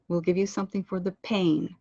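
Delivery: weight on the final word "pain"; phrase ending landed. Shown as a demonstration. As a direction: let PAIN land at the end. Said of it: "allow the end of the phrases to land".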